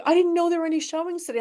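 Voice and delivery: high, fast, spaced-out excuse; imitated high-pitched rambling son; dazed son's voice. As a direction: play the high kid caught off guard. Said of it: "And he was like".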